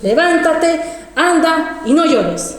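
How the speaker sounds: orden lenta y algo más aguda; voz del Señor citada. Retold or imitated. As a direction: repite el mandato separando cada palabra. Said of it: "Esas palabras así". (mandato divino, pausado y firme)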